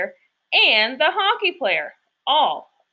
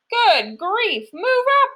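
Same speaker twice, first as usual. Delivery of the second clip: squashed grandpa shouting high; yelling; 9 semitones higher, slower than usual. A narrator's reading. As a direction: bark at the baker to move. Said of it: "yelled Grandpa Dan".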